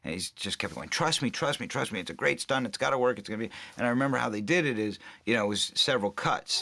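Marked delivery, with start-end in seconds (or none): 0.9-3.5 quick repeated assurances, pitched up; insistent reassurance. Retold or imitated. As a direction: imitate a director selling a doubtful plan. Retells director insisting stunt will work.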